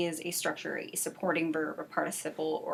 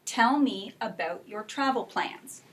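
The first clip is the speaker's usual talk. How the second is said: slow, measured model sentence for students; slow group-drill reading; 2 semitones higher, slower than usual. Shown as a demonstration. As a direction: lead the class through it slowly. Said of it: "can we say it together".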